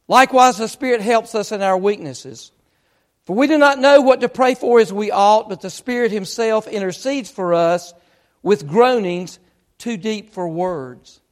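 emphatic verse reading, loud opening easing toward the close; scripture reading. Acted. Preacher quotes Romans to his congregation, emphatic scripture reading. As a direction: read the verse out to the congregation with weight.

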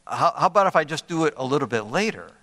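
quick, tentative bargaining, imitating a child; negotiating. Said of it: "still in negotiating mode".

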